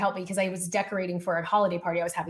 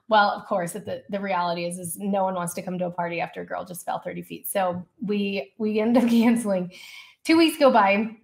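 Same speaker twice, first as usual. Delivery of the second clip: ordinary talk, nothing marked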